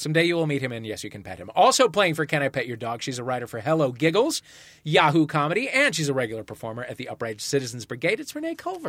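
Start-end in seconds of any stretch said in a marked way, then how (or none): 1.5-8.9 announcer. Acted. Host introduces contestants.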